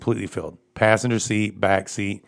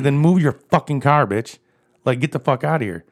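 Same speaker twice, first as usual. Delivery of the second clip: angry retold yell; 5 semitones higher than usual. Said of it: "I was like".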